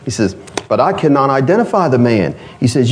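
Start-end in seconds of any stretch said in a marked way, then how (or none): 0.7-2.4 light imitation of a Chinese accent. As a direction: quote a waiter with a slight Chinese accent. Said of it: "he said it with a Chinese accent".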